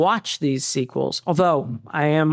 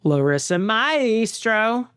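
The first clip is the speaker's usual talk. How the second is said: bad child actor; 4 semitones higher, slower than usual. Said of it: "Just a bad child actor".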